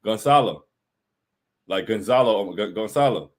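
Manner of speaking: careful repeated attempts at "Gonzalo"; practising the pronunciation. Shown as a demonstration. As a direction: rehearse "Gonzalo", saying the z as an s. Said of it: "the little squiggle is what makes it Gonzalo".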